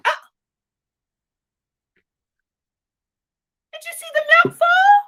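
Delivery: storyteller crying out as the milk falls; sudden alarm. Acted. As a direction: gasp it out as the milk spills.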